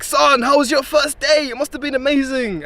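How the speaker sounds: a hint of an eager mother asking; mum's voice. Mum voiced in retold story.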